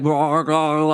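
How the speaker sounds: imitated messy chomping noises; mock gobbling. Telling friends about gorging on fried chicken, mock gobbling. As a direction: sound like you're gobbling greasy food. Acting out messy, greasy eating.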